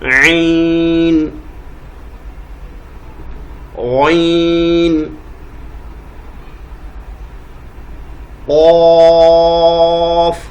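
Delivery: each letter held long; drawn-out letter names. Shown as a demonstration. Teacher listing letters with madd for students, long. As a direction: stretch عین, غین, قاف like a recitation. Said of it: "عین کی آواز نکالنی ہے".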